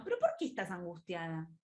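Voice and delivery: a doubting, challenging "¿Pero por qué estás angustiada?" that judges the feeling; a hint of reproach in the question. Shown as a demonstration. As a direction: ask "¿Pero por qué estás angustiada?" as if being anxious were wrong. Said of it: "mirá el tono".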